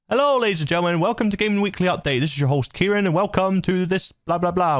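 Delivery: show host intro. Shown as a demonstration. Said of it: "So I would do my intro".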